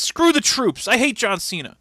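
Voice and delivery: high, loud mock rant; yelling. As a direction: bark it like a ranting heel. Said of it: "starts yelling about".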